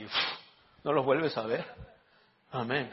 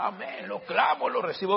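mock devout enthusiasm; 8 semitones higher, 4 dB louder than usual. Parodia a quien reclama el versículo.

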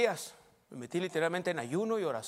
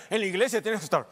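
mock pious Christian; 3 semitones lower, slower than usual. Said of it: "algunos cristianos tienen esa idea".

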